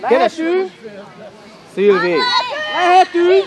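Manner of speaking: loud sideline shouts to players; calling out. Real, not acted. Coach calling Szilvi and teammates, loud calling out. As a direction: project hard across the pitch.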